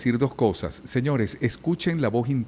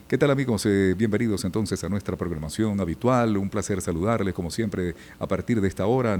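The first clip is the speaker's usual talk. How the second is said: put-on lightly parodied old-school announcer greeting; radio DJ patter. Veteran mimicking DJs opening their morning show, light announcer patter. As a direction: rattle through a stock radio welcome, mock-professional. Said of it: "puro disjoqueadito".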